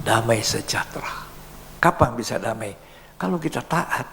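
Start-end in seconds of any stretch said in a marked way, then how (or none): 0.0-1.3 whispered prayer. Acted. Prayer to God.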